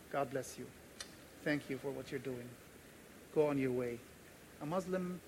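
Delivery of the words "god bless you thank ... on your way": lower, softer kindly send-off; hushed, understated reported kindness; gentle blessing. Retold or imitated. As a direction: bless them quietly and sincerely. Officer kindly sends him on.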